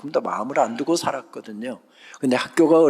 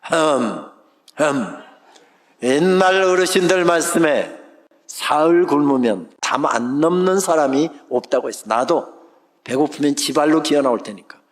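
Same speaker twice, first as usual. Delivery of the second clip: stern father. Retold or imitated. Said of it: "저희 부친 꼭 제 방 앞에 와서".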